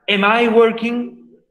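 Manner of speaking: slow English model question, "I" lifted. Shown as a demonstration. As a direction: spell out the question slowly for the class. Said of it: "signo de interrogación".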